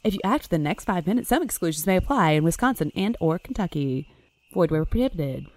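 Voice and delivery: quick infomercial legal read; fast disclaimer. Acted. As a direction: rattle off the fine print fast. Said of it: "fast legal disclaimer".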